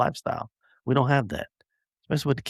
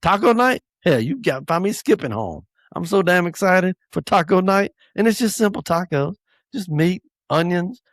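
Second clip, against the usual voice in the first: higher, bursting with joy; light up at the thought of tacos; real excitement; 6 semitones higher than usual. Real, not acted. Dad gushing about taco night to listeners, high real excitement.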